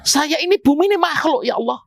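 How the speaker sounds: mild mock plea of a mountain to God; pleading mountain. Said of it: "gunung apa bumi juga sama".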